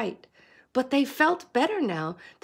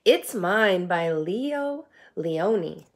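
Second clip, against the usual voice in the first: slow, lower title read; title announcement; 3 semitones lower, slower than usual. Shown as a demonstration. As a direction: announce the book title slowly. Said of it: "Story time".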